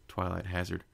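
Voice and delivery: ordinary delivery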